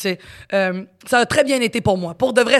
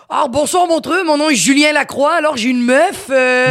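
hammed-up Parisian French accent, higher and louder; mock French accent; 6 semitones higher, 4 dB louder than usual. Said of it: "il parlait comme un Français". (imitation moqueuse d'un accent français de France)

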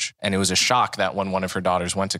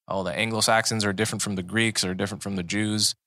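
lightly put-on Southern accent. People during eugenics' popularity sorting ethnic groups, in a Southern accent. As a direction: imitate old eugenicists with a slight Southern accent. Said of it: "I'm doing a Southern accent".

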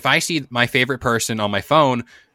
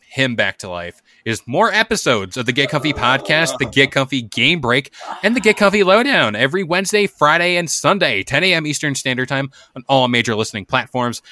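podcast outro plug; 3 semitones higher than usual. Acted.

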